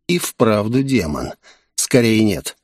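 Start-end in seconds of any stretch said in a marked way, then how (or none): none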